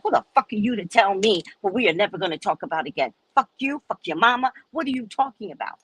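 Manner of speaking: fast, ranting outburst; mock furious rant at John. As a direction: tear into him. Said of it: "I went off".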